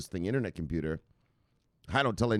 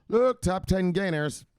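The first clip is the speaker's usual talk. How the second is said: high, loud, slow announcer call; booming segment intro; showman intro; 10 semitones higher, 5 dB louder, slower than usual. Acted. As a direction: stretch it like a game-show host. Segment opener, drawn out.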